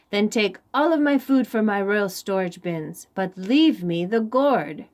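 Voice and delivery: annoyed king. Acted. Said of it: "cried the annoyed king".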